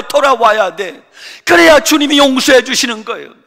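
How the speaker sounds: loud, high preaching at full force; impassioned sermon climax; fiery preaching. Acted. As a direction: preach it hard to the congregation.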